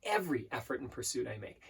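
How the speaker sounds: slow, deliberate mantra with pauses; broken into sections. Shown as a demonstration. Coach repeating an affirmation in sections, slow and deliberate. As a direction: dwell on each phrase, drawing it out. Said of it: "repeating in different sections".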